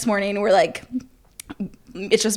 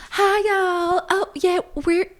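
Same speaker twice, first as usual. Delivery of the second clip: high-pitched, hammed-up Texas accent; 8 semitones higher than usual. Two friends fooling a fraternity party, high fake Texas accent. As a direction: play a sweet Texan, voice pitched way up. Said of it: "let's talk in Texas accents".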